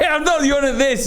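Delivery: laughing while protesting; giggling through the words. Real, not acted. Laughing apology to friend.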